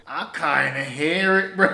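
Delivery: half laughing while admitting it; chuckling. Real, not acted. Amused at a wet diss.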